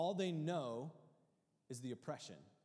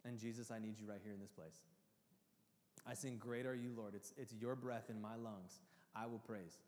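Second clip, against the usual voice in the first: prayerful worship. Retold or imitated. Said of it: "I need to come and go".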